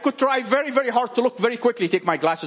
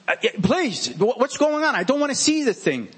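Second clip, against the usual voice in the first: mildly exasperated plea, pitched up; mock yelling; 5 semitones higher than usual. Preacher acts out yelling at the mirror over a spot, mock yelling. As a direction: plead crossly at the mirror, without really shouting. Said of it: "I yell at the mirror".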